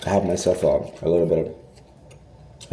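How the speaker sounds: talking through a mouthful of food; chewing while talking, words muffled; mouth full. Real, not acted. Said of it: "I'm talking with my food in my mouth".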